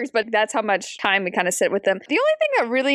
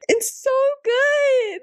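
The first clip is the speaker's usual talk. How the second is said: very high, slow squeal of delight; real high-pitched rave; gushing; 13 semitones higher, slower than usual. Real, not acted. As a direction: gush in a drawn-out high pitch. Gushing over the narrator's accent work.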